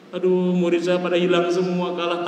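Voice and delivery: mildly plaintive, evenly held complaint; mock sad lament. Storyteller voicing a teacher who lost his students, mildly sad. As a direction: lament lightly as the abandoned teacher. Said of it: "gurunya sedih".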